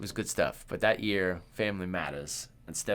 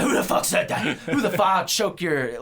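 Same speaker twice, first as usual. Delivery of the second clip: loud, raised voice, half laughing; mock drunken outrage; 8 semitones higher, 6 dB louder than usual. Retelling the singer's reply to the kid, mock outraged yell. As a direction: imitate a drunk star snapping back at a heckler. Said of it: "he looks clearly drunk and coked up".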